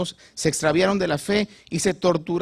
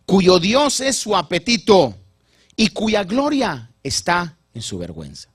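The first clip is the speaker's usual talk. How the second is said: imitating broken voice; 3 semitones higher, 5 dB louder, slower than usual. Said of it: "quizás con su voz quebrada".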